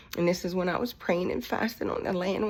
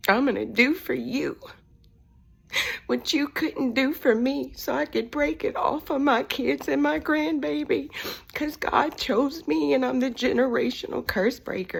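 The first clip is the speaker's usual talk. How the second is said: higher, louder, rising fervor; impassioned declaration; 7 semitones higher, 4 dB louder than usual. Retold or imitated. Daughter declaring to her crying dad why she fights, impassioned. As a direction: proclaim it with mounting emotion.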